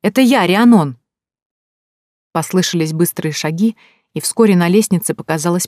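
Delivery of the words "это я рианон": loud, higher call announcing herself. A narrator's reading. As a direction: shout so they hear upstairs. Calling into the empty tavern.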